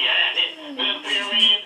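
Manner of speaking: slow, loud mock grumble; grumpy skeptic. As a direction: growl the question like a grump. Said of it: "accent or they sound grumpy".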